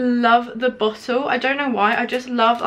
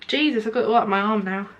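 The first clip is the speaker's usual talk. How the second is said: usual speaking voice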